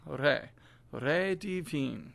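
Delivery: Re with the tongue flipped on the R. Shown as a demonstration. Teacher models for singers, flipped R in Re divin. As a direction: flip the R lightly at the start of Re, vowel as "reh". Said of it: "you flip the tongue".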